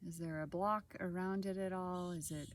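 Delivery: calm meditation guide, long pauses between short phrases; guided body scan. Acted. Guide leading listeners through a body scan, calm and unhurried. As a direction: guide gently through the body, leaving space after each phrase.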